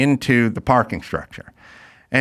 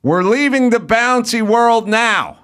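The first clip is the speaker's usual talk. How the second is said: slow, higher singsong nanny voice; slow, higher mock nanny; mimicking nanny; 7 semitones higher, slower than usual. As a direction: draw it out like the nanny. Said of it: "then she'd go".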